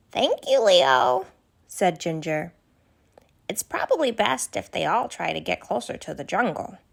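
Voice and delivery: put-on a kind, worried young giraffe asking questions; Ginger the giraffe. Ginger thanks Leo.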